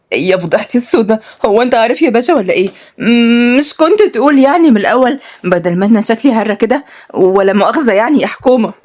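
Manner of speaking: high-pitched flustered complaint; lightly acted mortified woman; sheepish, lifted-voice protest; embarrassed woman. Woman embarrassed on learning he knows.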